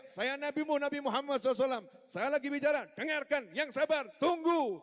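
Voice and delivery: imagined preacher rebuking a rude interrupter, hammed-up; mock scolding. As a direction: scold the latecomer in mock outrage. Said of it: "tidak diam dan kayak".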